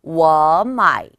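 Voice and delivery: 워 마이 joined, 워 loud and rising into a dipping 마이; second-plus-third tone demo. Shown as a demonstration. Teacher repeats the correct pattern, rising tone then third tone. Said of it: "두 번만 따라 읽어보실게요".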